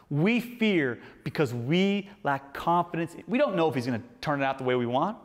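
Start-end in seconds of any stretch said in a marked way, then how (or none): 0.1-3.1 slow restated point. Shown as a demonstration. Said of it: "first thing I want you to write down".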